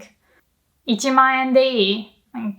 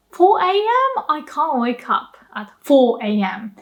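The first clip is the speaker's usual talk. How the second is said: Four A M jumps way up in disbelief; incredulous complaint; mock shocked protest; 2 semitones higher than usual. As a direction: balk at the hour, aghast. Told to wake at four.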